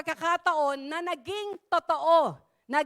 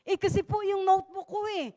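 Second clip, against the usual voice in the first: sulking youth; 5 semitones higher, faster than usual. Retold or imitated. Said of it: "Sabi niya".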